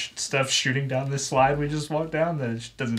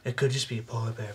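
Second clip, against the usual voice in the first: soft, quick, hushed aside; whispering; 5 dB quieter, faster than usual. Acted. Player guessing at the sleeping creature, hushed. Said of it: "I'm whispering loudly".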